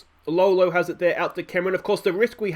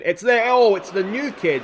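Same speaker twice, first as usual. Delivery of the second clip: higher and louder as the chance comes; excited commentary; 4 semitones higher, 4 dB louder than usual. Real, not acted. Manager watching his debutant's header, excited. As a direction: burst up at the header.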